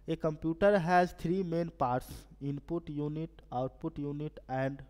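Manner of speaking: very slow, word-by-word reading of the question. Acted. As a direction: read each English word out slowly for the class. Reads the question aloud slowly.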